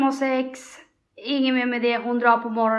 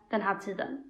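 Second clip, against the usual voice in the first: whispered; 3 semitones lower, 10 dB quieter than usual. Retold or imitated. Quoted date plan, whispered.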